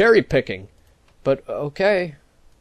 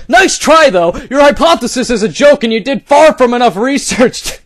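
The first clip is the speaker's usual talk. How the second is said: higher, cocky "nice try"; smug mock read; 3 semitones higher than usual. Reading the troll's smug reply, hammed-up. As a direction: sneer it like the troll. First mocking read of the post.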